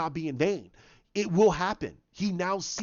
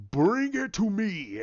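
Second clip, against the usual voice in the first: retold scream; 2 semitones higher, slower than usual. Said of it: "you see him just screaming out".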